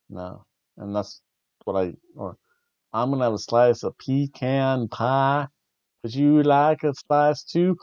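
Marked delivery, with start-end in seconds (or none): 2.9-7.8 lightly voiced Tennessee hostess, slow; mock a sweet Tennessee offer; Tennessee accent. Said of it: "that's that Tennessee accent".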